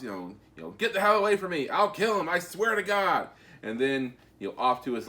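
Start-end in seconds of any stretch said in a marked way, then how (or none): 0.7-3.3 higher, mock hostage-taker yell; retold yelling. Hostage taker threatening the cops, mock yelling. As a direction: act out a frantic threat, pitched up. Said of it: "hostage taker is yelling at the cops".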